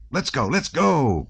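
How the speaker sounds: high, slow, drawn-out call; crying out. A narrator's reading. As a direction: cry out to get everyone moving. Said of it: "cried Anatole".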